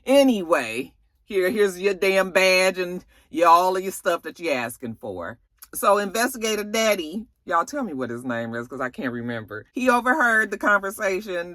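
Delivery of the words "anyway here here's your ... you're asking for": fast, indignant telling-off; a light imitation of her snapping back; mock angry comeback. Investigator telling off the chief while handing in badge, indignant. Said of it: "She was like".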